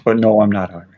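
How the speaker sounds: a light Irish lilt on the denial, only a hint of Irish; Irish accent. Shown as a demonstration. Denying Irish roots to chat, a hint of Irish accent. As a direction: let it slip out faintly Irish. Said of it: "I know that probably sounded Irish".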